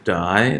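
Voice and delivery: "di" aislado como sílaba, subiendo; syllable counted out. Shown as a demonstration. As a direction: say "di" alone as one counted syllable. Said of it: "that's the first one".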